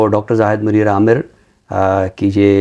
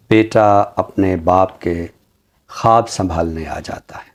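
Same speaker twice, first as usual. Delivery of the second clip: slow, measured poetry recital with lines repeated; ghazal recitation; slower than usual. Acted. Guest recites a ghazal for the host, slow recital. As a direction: recite each couplet slowly, savouring it.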